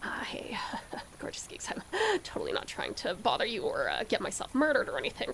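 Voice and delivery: hushed, hesitant little aside; mock-timid message. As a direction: tiptoe into it very softly, half joking. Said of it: "I'm gonna D M you and be like".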